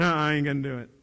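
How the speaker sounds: sullen scoff and refusal; huff, then refuse like a stubborn teen; defiant grunt. Retold or imitated. Teacher imitates a stubborn student scoffing at a request, sullen. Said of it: "Some of you are like this".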